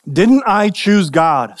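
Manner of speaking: mildly indignant, drawn-out challenge; slow, put-out question with a touch of indignation. Acted. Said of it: "somebody asked indignantly".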